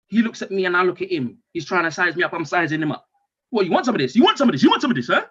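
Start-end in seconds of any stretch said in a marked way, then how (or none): 3.5-5.2 squaring up. Retold or imitated. Squaring up to the child.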